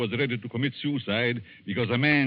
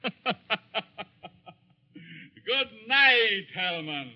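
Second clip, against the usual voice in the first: menacing farewell; 12 semitones higher, 4 dB louder, slower than usual. Acted.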